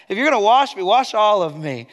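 lightly acted, zealous demand; overeager disciple. Preacher playing Peter insisting Jesus wash him fully, overeager.

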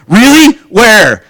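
mock astonished friend; surprised disbelief. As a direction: react as if you can't believe it. Incredulous friend hearing news.

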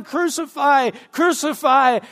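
mild mock crowd chant, falling on each word; retold crowd shout. Preacher acting out the crowd at the cross, mild shout. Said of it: "the crowd is shouting".

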